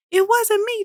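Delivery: squeaky high denial; high-pitched. A narrator's reading. Bully Jack denying the fart, high-pitched. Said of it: "Jack says in a high-pitched voice".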